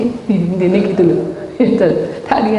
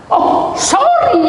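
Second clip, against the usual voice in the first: very high, drawn-out apology; exaggerated sing-song sorry; mock apology; 4 dB louder, much slower than usual. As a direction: stretch the apology right up high. Retold offhand apology for rudeness.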